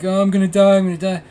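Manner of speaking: high-pitched mock wailing; imitated panic. Storyteller imitating the kid rolling around, panicked wail. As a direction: whine it in hammed-up terror.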